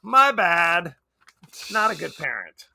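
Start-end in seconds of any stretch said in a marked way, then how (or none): 0.0-0.9 careless whoops. Retold or imitated. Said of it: "She's like".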